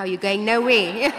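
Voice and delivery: laughing through a mother's firm order; retelling a mom's order with a laugh; laughing mock order. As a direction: say it firm but giggling.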